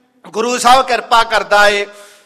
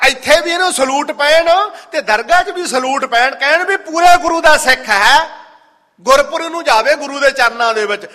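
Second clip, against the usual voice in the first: raised, higher-pitched sermon delivery; high-pitched devotional exhortation; fervent preaching; 5 semitones higher than usual. Real, not acted. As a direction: preach it out earnestly to the congregation.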